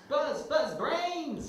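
high, loud snarling zombie cry; zombie growl. Acted. Zombie calls out the attack cue to the pilot, snarling.

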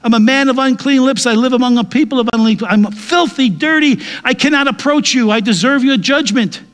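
a hint of a broken sinner crying woe is me; confessing sinner. Sinner confessing before God, mildly pleading. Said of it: "what you need to do is before God says".

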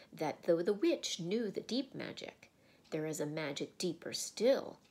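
grand lion explaining. Acted. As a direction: speak like a wise great lion. Aslan explains the deep magic.

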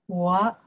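我 in third tone, dipping then rising. Shown as a demonstration. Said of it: "the third one".

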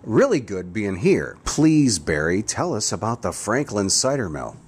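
Grizzly Gus. Acted. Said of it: "as Grizzly Gus, an alter ego of mine".

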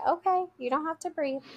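high, gentle accepting reply; very calm. Retold or imitated. Teacher reassures child who refused breathing, very calm. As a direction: placate the upset child calmly. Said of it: "I would very calmly say".

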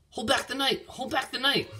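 put-on high, pleading girl's voice; high-pitched girlish urging; urgent repeated plea. A narrator's reading. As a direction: chant it high, like a desperate wish. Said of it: "Ellen said over and over".

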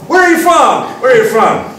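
high, loud question to a stranger; acted eager greeting. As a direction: call out with keen curiosity. Acting out meeting a foreigner.

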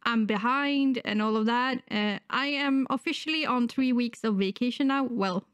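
sick, wheezy voice; talking through a cold. Real, not acted. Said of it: "sorry if I sound a lit-, little bit wheezy".

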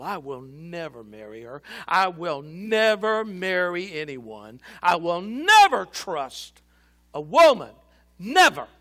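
sobbing vow. A narrator's reading. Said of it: "The sobs exploded from Joseph's soul".

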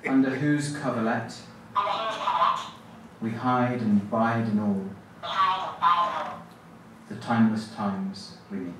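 measured poetry reading with long pauses; poem recitation. Acted. Poet reading a favourite poem to the audience, measured and halting. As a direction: recite line by line, leaving a wide gap after each.

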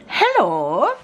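breathy whispered hello, rising. Real, not acted. Mum greets viewers on return, in a whisper. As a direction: whisper a hushed greeting back to camera. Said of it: "Don't know why I'm talking like that".

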